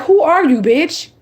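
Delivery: high, incredulous demand; shocked at what she found; baffled, accusing questions; stunned who are you. Retold or imitated. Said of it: "I'm looking at that shit like".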